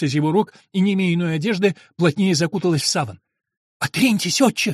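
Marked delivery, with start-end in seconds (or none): 3.8-4.7 возмущённо, выше обычного; оттолкни его гневным криком; негодующий возглас. Acted. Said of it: "вскричала она с глубоким негодованием". (Антония гневно отталкивает монаха, высоко и громко)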